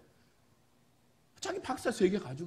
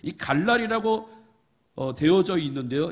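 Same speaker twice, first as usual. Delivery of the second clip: normal talking voice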